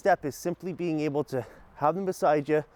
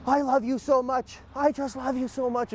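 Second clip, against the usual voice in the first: 1 said in an angry way; 10 semitones higher than usual. Retold or imitated. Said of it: "in an angry way".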